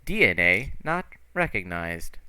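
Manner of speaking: lightly voiced machine announcement. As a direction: separate the words like an automated alert. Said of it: "the voice goes".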